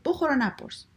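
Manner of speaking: acted no-questions command; curt storybook refrain. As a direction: cut the question short, lightly. Father's refrain at dinner.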